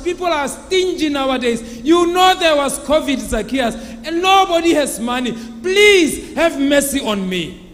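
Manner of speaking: a loud, desperate beggar crying for mercy; loud pleading. Acted. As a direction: raise the voice and beg him to spare you. Blind man pleads with collector.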